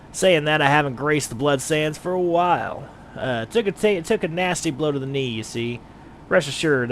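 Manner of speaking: lightly voiced brawny gladiator, hearty; a hint of a bluff British fighter greeting a newcomer; Rodgar the gladiator. Player voices gladiator Rodgar to the adventurer, lightly put on.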